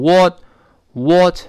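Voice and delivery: "what" drawn out as the form not to copy; wrong vowel in what. Shown as a demonstration. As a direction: show the mistaken, stretched "what". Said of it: "不要读what".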